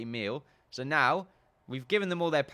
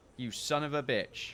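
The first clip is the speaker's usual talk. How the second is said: ordinary talk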